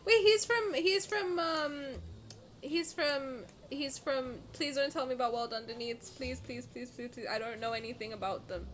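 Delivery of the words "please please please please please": fading plea. Real, not acted. Begging not to be spoiled.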